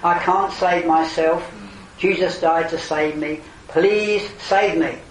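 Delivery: slow, earnest plea to be saved; humble plea. Pretend. Preacher modelling a sinner's prayer, slow and earnest. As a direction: pray it sincerely, asking for rescue.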